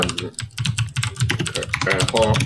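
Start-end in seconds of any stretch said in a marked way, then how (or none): 1.5-2.3 talking round ice cream; mouth full. Real, not acted. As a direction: speak through a mouthful. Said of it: "I had an ice cream in my mouth".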